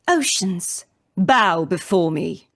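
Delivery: slow, loud commanding decree; dark lord. Acted. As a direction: order the sea to kneel. Live line read, commanding villain.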